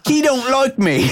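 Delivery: high French-accented voice, put on for the quote; Bobby's accent. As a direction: read it as Bobby in a French accent, pitched well up. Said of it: "He's writing it like that, so I have to say it".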